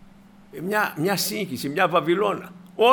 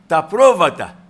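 πρόβατα hit hard and much louder; stress on πρόβατα; 9 dB louder, slower than usual. Real, not acted. Preacher singles out the sheep from the verse, emphatic stress on πρόβατα. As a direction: punch out πρόβατα, loud on its first syllable. Singles out the word just quoted.

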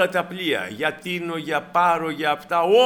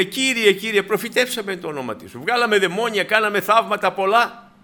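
lightly acted plea, pitched higher; protesting rejected believers; 5 semitones higher than usual. Preacher voices the many appealing to the Lord on judgement day, mildly acted protest. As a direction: plead your record, voice lifted. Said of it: "και θα μου πούνε".

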